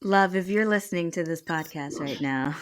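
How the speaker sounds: a hint of soothing radio dedication voice; Delilah. Wife addressing her husband through the podcast, mock radio-host voice. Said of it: "that was my Delilah voice".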